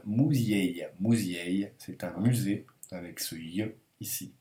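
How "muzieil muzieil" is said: slow, careful "muzieil", said twice; Russian word read out. Shown as a demonstration. Teacher shows learners the word with ye, careful demonstration. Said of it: "ça nous donne".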